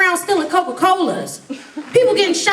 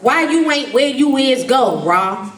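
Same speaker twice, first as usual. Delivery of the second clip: imitating street talk; 4 semitones lower, slower than usual. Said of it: "I can't even talk the way they talk".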